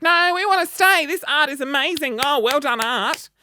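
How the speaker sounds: put-on a cheeky kid refusing to leave; excited kid brother. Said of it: "And my brother's like".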